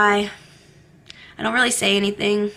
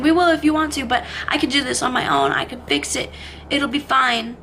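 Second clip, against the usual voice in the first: husband's sudden eagerness; 3 semitones higher than usual. Retold or imitated. Husband promising to change after ultimatum, eager and quick. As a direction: rush his promises like it just clicked. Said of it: "he's like".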